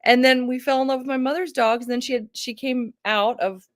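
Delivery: usual speaking voice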